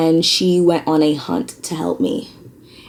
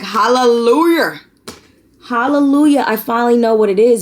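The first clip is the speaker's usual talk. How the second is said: relieved hallelujah; 7 semitones higher than usual. Retold or imitated. Telling viewers of her diagnosis relief, high and joyful. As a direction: sing out the relief. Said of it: "I went through emotions of, like".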